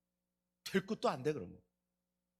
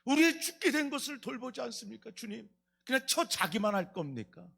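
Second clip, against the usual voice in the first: resentful complaint; 3 semitones higher than usual. Retold or imitated. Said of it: "그냥 원망".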